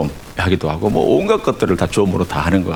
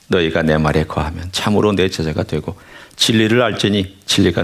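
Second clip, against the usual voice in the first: measured, solemn Bible reading; scripture reading. Acted. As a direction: read the verses steadily to the congregation. Reads scripture aloud.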